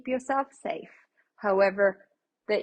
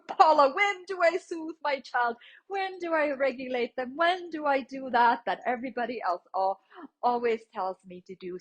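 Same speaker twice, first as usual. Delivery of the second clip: higher, puzzled parent asking the teacher; questioning parent; 5 semitones higher than usual. Retold or imitated. Parent asks Paula when to soothe, lightly voiced puzzled. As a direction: pitch it up like an unsure parent. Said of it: "I'm sure you might have a question".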